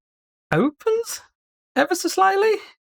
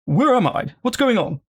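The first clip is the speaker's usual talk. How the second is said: confused sword; 7 semitones higher than usual. Acted. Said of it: "it asks, very confused".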